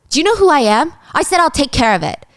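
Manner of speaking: husband yelling at his wife to back off; angry outburst. Acted. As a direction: pull rank on her.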